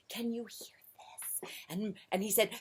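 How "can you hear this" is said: slow little whispered question; whispering. A narrator's reading. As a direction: whisper it from under the blankets. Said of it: "and he whispered".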